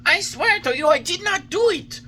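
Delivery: put-on old man struck on his thin legs; hurt complaint. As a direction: protest the blow, half laughing bitterly. Geppetto hit by the wood.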